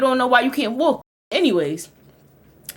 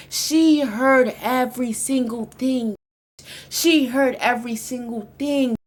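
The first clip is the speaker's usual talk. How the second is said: horror; slower than usual. Acted. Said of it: "repeated slow horror".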